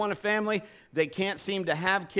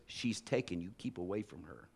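stern aunt; 10 semitones lower, 11 dB quieter than usual. Retold or imitated. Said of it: "she goes".

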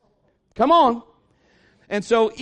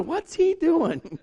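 puzzled neighbor; 7 semitones higher, much slower than usual. Retold or imitated. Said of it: "neighbors are looking out the window".

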